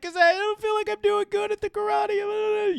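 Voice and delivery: mock high, monotone girl whine; imitating an upset girl. Host mimicking girl explaining her karate worries, mock upset high voice. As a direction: squeal it high as a pretend distressed girl. Retelling the crying girl's excuse.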